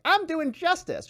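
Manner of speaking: mock self-righteous. Mocking self-righteous prosecutors.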